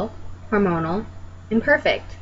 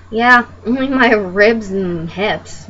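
sarcastic reply; 4 dB louder, slower than usual. Acted. Acted dry answer to the asker.

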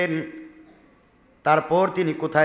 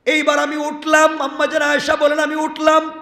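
high, loud preacher's cry; fervent preaching; 10 semitones higher, 5 dB louder than usual. Acted. Preacher voicing Ayesha rising, in a loud high cry. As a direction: ring it out over the crowd.

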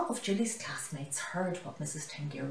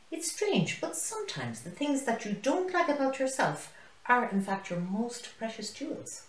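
high animated warthog voice; 5 semitones higher than usual. Acted. Warthog tells his story.

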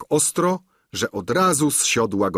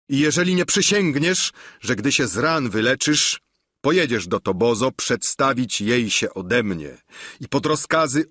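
threatening knight; 3 semitones higher than usual. Acted. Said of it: "zawołał".

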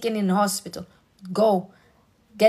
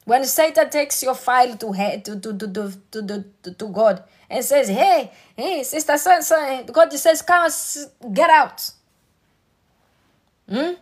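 high and loud, building to full preaching force; preaching climax; 5 semitones higher, 4 dB louder than usual. Real, not acted. Preacher telling the church God defends them, loud and high. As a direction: proclaim it to the congregation, louder and higher.

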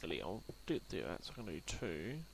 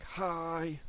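a cheery high wolf greeting; lightly voiced wolf; 6 semitones higher, 5 dB louder than usual. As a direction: pipe up like a happy pet. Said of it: "He's like".

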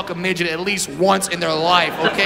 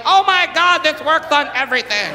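mock delight; 7 semitones higher than usual.

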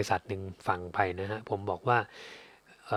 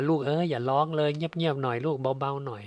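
a light imitation of a mother hushing her baby, a bit higher; soothing mother; 4 semitones higher than usual. Mother soothing her crying baby, lightly imitated tender hush. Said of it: "แม่ก็บอกว่า".

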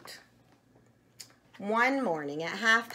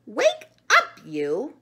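screamed; 3 semitones higher, 7 dB louder, slower than usual. A narrator's reading. Chicken Chuck wakes the sleeping monkey, screaming. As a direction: yell to wake a sleeper. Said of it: "screamed Chicken Chuck".

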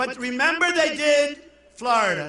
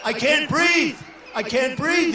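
mock Romney choking; 2 semitones higher than usual. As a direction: gasp it out like a man choking, in mockery. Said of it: "He went".

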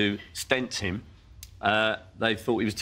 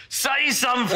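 calling out; 12 semitones higher, 3 dB louder than usual. Retold or imitated. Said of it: "every now and then go".

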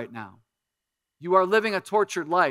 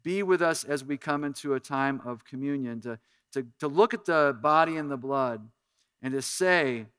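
pastor's prayer. Acted. Pastor prays over congregation.

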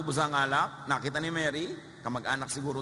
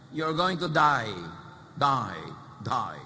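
blunt prophet; 4 dB louder, much slower than usual. Acted. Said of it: "ang taklesang propeta".

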